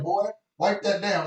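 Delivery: slow, loud, high command; imitated bossy order. Assistant ordering a crew member like a servant, imitated bossiness. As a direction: mimic someone ordering the help around. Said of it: "I thought she said".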